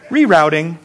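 lightly voiced, kindly navigation prompt; mild sat-nav imitation; reassuring GPS lady. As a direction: calmly announce it, no blame. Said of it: "it's just so reassuring".

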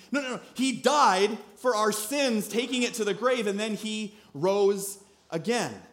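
high, impassioned preaching; fervent Peter. Retold or imitated. Peter preaching to non-believers, fervent. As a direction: proclaim it like Peter.

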